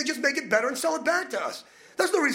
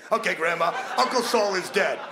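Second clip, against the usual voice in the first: mock announcement; 4 semitones lower than usual. Judge announcing winner.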